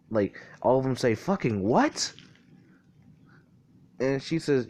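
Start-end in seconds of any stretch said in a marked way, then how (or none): 1.1-2.1 higher, rising disbelieving question; mock stunned outburst, pitch swooping up; retold shock. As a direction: act out the group's disbelief. Group's retold shock at the news.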